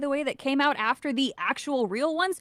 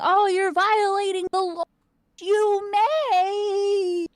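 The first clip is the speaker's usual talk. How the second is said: a higher, louder mocking politician voice; 8 semitones higher, 3 dB louder, much slower than usual. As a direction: parody a scolding politician, pitched up. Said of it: "we see some politicians saying".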